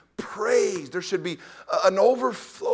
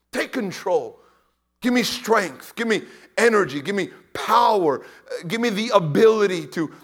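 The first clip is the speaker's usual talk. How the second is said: a touch of fervent prayer, louder; mock prayer; 6 dB louder than usual. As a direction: model the prayer for them. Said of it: "You need to ask God".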